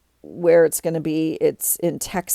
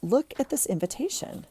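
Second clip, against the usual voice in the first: excited; 7 semitones higher, 6 dB quieter than usual. Real, not acted. Gushing over the invitation.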